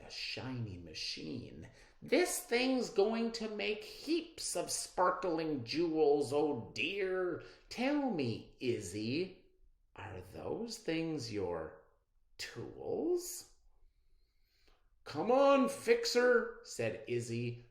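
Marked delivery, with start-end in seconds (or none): 2.0-13.5 snooty. Acted. Abby's snooty remark. 15.0-16.6 urging. Acted. Izzy urging Fixer.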